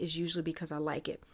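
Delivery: soft conspiratorial whisper. Real, not acted. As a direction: lean in and whisper it. Playful aside about sponsors.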